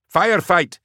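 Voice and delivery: high, loud battlefield shout over the comms; urgent shout. Acted. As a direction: yell it through gunfire. Soldier reports firefight over comm.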